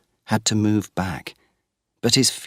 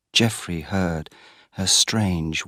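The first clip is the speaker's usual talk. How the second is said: ordinary delivery, nothing marked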